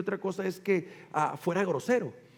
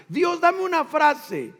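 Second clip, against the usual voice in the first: higher, slow, urgent plea to God; more urgent pleading prayer; 7 semitones higher, 4 dB louder than usual. Retold or imitated. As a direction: beg God for a phrase, slower and higher. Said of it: "Yo le decía".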